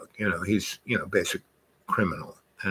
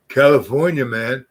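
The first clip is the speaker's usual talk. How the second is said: California dude; 4 semitones higher, 5 dB louder than usual. Retold or imitated. Voicing the California surfer boys.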